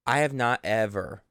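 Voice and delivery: usual speaking voice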